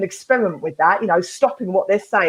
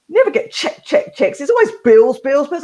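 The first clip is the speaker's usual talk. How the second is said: mock indignant dad; 5 semitones higher, 3 dB louder than usual. Dad insisting, voiced in story.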